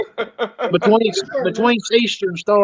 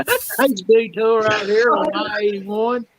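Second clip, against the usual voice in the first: Southern traffic report; 3 semitones higher than usual. Retold or imitated. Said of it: "big old wreck".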